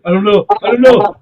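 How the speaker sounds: retold freak-out, pitch climbing on the repeat; mild mock panic. Man facing a grenade, mildly panicked imitation. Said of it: "guy's all freaking out".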